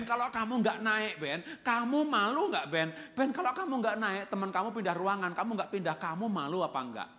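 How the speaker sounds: loud, high, deliberate warning; stern parental anger. Shown as a demonstration. Father admonishing Ben over failing grades, loud stern warning. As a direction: press each point home to the child. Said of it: "kalau marah itu harus demi anak".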